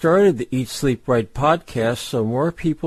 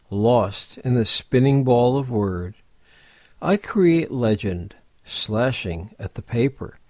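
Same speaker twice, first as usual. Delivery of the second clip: measured poetry reading with weighty pauses between phrases; poem recitation. Acted. Narrator reads Daniel Van Gilder's Ink to listeners, measured poem recitation. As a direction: recite it line by line, letting each phrase stand.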